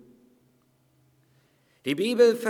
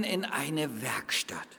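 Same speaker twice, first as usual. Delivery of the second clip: whispered; 4 semitones lower, 7 dB quieter than usual. Real, not acted. Sermon drops to a whisper.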